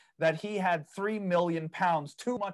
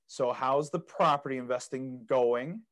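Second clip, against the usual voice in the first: derogatory tone; 4 semitones lower than usual. Retold or imitated. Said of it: "that really derogative, like, negative".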